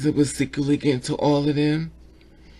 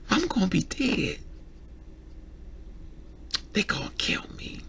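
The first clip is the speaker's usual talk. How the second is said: acted whisper of fear, much softer; frightened whisper; 3 semitones higher, 9 dB quieter than usual. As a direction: breathe it out as if they'll hear you. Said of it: "When a person cries saying".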